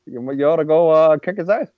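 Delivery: lightly voiced Obama egging someone on; mock Obama voice. Voicing Obama urging a fight.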